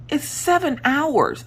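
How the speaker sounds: high, drawn-out sisterly protest; stretched-out whiny objection; retold protest. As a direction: imitate an incredulous sister, slowly and high. Sister protests the long drive.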